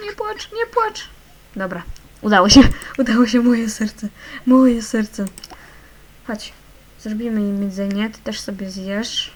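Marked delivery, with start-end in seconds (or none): 0.1-1.1 much higher, cooing nie płacz, nie płacz; high-pitched pleading. Acted. Mother coaxing a crying baby, high coo. 1.6-5.3 louder, fast and laughing with relief; relieved joy. Real, not acted. Player cheering a calmed baby, joyful loud relief. Relief after child stops crying.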